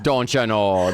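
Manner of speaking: mock Minnesota accent. Shown as a demonstration. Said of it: "Minnesota, Chicago".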